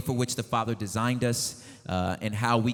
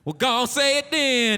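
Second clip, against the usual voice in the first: much higher, slow put-on voice; mock squeaky voice; 13 semitones higher, 4 dB louder, slower than usual. Host daring the performer in a hammed-up high voice. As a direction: drag it out in a high cartoon squeak.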